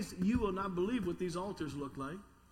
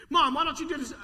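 mock backtalking kid; 6 semitones higher, 8 dB louder than usual. Kid talking back to mom.

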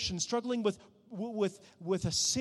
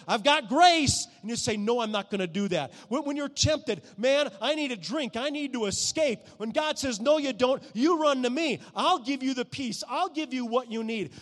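loud, high-pitched sermon; fiery preaching; 6 semitones higher, 5 dB louder than usual. Acted. Pastor urges the congregation to resist temptation, loudly. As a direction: preach it out with full force.

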